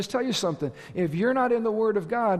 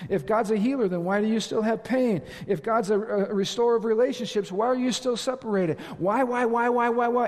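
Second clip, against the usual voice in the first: higher challenge building to rapid whys; accusing questions; 4 semitones higher than usual. Acted. Satan attacking God's character through questions, mock accusing. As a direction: pile up the accusations, rising to insistent repeated whys. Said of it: "Satan always attacks the character of God".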